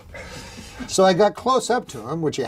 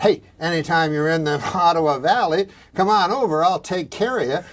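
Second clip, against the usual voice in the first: lightly voiced friendly rural uncle; a hint of a country uncle, clearly worded; Uncle Basil; 2 semitones higher than usual. Uncle Basil invites him over, lightly imitated. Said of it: "my Uncle Basil, if he said".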